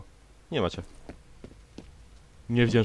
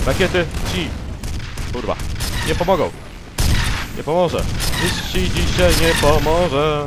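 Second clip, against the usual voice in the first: mocking taunt; 3 semitones higher, 4 dB louder than usual. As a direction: drag out the threat like a cartoon villain. Taunts an enemy robot.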